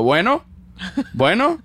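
rising bueno, bueno as answering the phone; phone greeting demo. Shown as a demonstration. Showing how Mexicans answer the phone, rising bueno.

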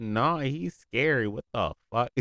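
loud, high, drawn-out mock alarm; frightened protest. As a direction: replay a scared kid's refusal, half joking. Acts out own scared childhood protest.

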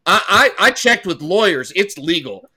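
hammed-up clueless dealmaker; mocking naive guy. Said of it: "walk up to him and be like".

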